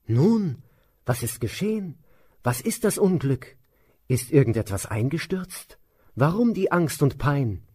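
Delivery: a startled queen wanting to know; startled question. Acted. Queen opening the door to the maid, high and startled. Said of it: "fragte erschrocken".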